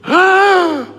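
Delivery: loud, high surprised gasp. Acted. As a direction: gasp in delight. Mock amazement in heaven. (terkesiap kaget dengan suara tinggi)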